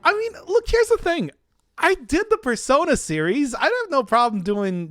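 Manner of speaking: sudden high squeaky break; voice cracking high. Real, not acted. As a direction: voice jumps way up and cracks. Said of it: "my voice".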